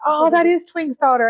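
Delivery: high-pitched imitation Irish accent; fake Irish accent. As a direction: mimic an excited Irishwoman's accent badly. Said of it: "my fake Irish accent".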